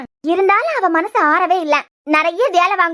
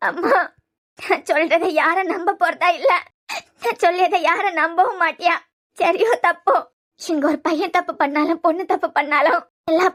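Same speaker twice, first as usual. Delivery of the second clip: halting, weepy lament; tearful despair. Acted. Daughter sure nobody will believe her, tearful despair. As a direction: speak through held-back sobs. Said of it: "இப்படி அழுதுகிட்டு இருக்கச்சுல".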